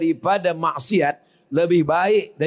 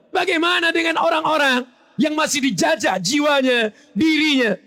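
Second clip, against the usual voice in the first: fiery preaching; 8 semitones higher than usual. Acted. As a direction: drive the question home at full force. Preacher rising to full force.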